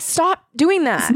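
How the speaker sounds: exasperated scolding. Acted. Scolding a character over windows.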